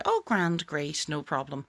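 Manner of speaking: the same words let down flat and honest; true emotion. Shown as a demonstration. Coach shows the honest answer, said deflated and flat. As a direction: let the real mood leak through. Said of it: "you can still say the word".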